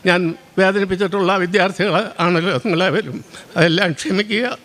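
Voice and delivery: heartfelt, throat tight with sorrow; deeply emotional. Real, not acted. Teacher asking former students' forgiveness, deeply emotional. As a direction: say it with real emotion catching in the voice. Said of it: "sir വളരെ വികാരാധീനനായിട്ടാണ് സംസാരിക്കുന്നത്".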